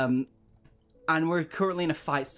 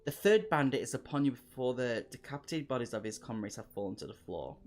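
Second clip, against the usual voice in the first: lively gamebook narration, raised at the action; story narration. A narrator's reading. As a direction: read the adventure aloud like a storyteller. Reads gamebook story aloud.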